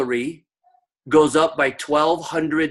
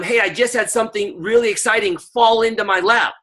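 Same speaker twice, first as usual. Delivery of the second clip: upbeat script line; 5 semitones higher than usual. Shown as a demonstration. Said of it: "I'm telling them".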